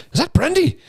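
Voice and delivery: high surprised call across the bar; surprised recognition. Retold or imitated. Irish friends spotting him in a bar, surprised high call. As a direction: call his name in delighted surprise.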